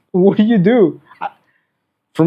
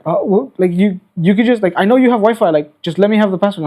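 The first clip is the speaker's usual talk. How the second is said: higher-pitched flustered customer plea; pleading customer; 4 semitones higher than usual. Retold or imitated. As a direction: plead a little, like a thwarted customer. Retells customer pleading for password.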